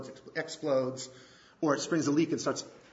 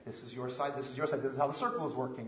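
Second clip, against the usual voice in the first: calm counselor; 4 semitones lower, 6 dB quieter, faster than usual. Retold or imitated. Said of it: "What did the counselor really say?".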